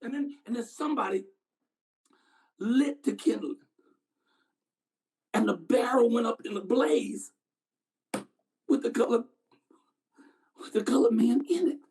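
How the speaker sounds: halting, pause-heavy horrified recollection; haunted witness. Acted. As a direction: recount the horror piece by piece. Actor resumes the witness monologue.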